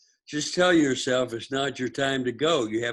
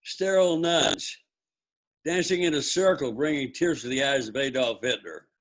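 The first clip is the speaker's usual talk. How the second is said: sing song rote recitation; 3 semitones higher than usual. Shown as a demonstration. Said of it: "Try doing the memory game".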